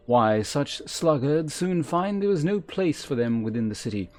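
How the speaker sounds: voiced game mentor, formal and measured; stern quest giver. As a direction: read it as a haughty trainer addressing a recruit. Same voiced quest giver continues.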